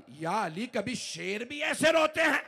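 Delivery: high, loud cry of disbelief; anguished cry. Acted. Fizza cries out to Ali. (फ़िज़्ज़ा Ali से चीख़कर पूछती है, दर्द भरी पुकार)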